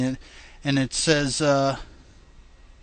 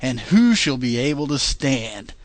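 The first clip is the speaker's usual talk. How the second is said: reading scripture aloud, steady and measured; King James reading; 2 semitones higher, 3 dB louder than usual. Acted. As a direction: read it like a Bible passage. Reads scripture dramatically.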